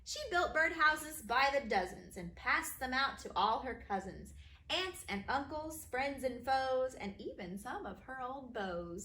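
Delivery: bouncy, sing-song rhyme reading; rhyming read-aloud. A narrator's reading. Author reading her rhyming book to kids, bouncy.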